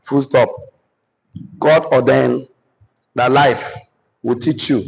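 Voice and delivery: measured dictation in short phrases. Acted. Dictates notes to the audience.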